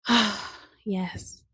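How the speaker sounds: acted sigh of contentment; relieved sigh. Standing in a freshly cleaned house, sighing with relief. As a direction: let out a long, satisfied exhale. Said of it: "you just stand there like".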